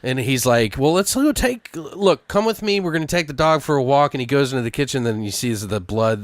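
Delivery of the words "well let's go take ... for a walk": higher, brisk fake-casual invite; mock cheerful cover-up. The husband steering his wife away from the dog, high and falsely cheery. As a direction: pretend all is fine, hurry them out. Character coaxing to hide the dog.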